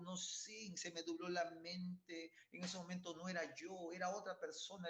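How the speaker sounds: imitando al borracho que pide perdón, algo agudo; súplica lastimera fingida, lenta a ratos; marido arrepentido. Retold or imitated. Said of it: "al día siguiente llorando". (burla de un marido que llora pidiendo perdón)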